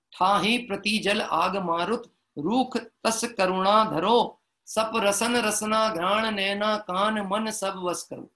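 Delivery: slow, measured chanted verse; verse recitation. Acted. Preacher chants the verse on the senses, slow recitation. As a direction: intone each word of the verse slowly.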